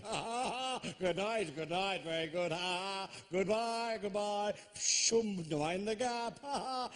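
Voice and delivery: high, forced ha-ha goodbyes; awkward fake laughter. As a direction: bluster your way out with mock laughs. Awkwardly fleeing train after his joke.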